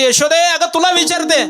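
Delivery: high, loud call demanding an answer; loud shout. Acted. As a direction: shout her name to rouse her. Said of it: "मोठ्यानं आरडून ठोकली".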